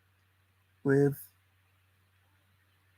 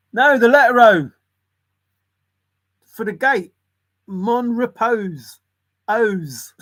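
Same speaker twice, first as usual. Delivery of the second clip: mock customer explaining; 7 semitones higher, 6 dB louder, slower than usual. Customer in retold sketch.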